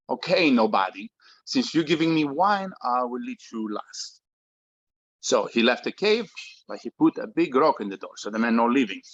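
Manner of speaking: put-on Greek father, heavy Greek accent. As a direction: speak English with a thick Greek accent. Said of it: "speaks with a heavy Greek accent".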